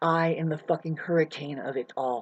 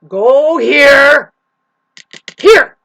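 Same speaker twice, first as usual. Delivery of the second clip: sharp commanding shout, much higher; 6 semitones higher, 13 dB louder, much slower than usual. Acted. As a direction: yell the command across the room.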